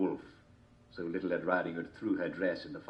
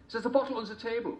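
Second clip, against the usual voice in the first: high wolf voice. A narrator's reading.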